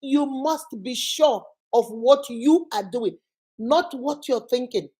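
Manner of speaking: slow, each word laid down with weight; slow, deliberate. Shown as a demonstration. Advising a single mother, slow and deliberate. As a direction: spell it out slowly so it sinks in. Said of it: "Number one".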